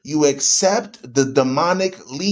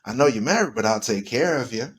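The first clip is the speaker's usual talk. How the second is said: smooth seducer; 4 semitones lower than usual. Retold or imitated. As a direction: croon it like a lady-killer. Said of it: "comes down and says".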